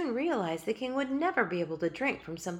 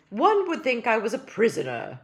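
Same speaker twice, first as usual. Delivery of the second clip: tiny king's voice; 4 semitones higher, 8 dB louder than usual. Acted. King laments his meal.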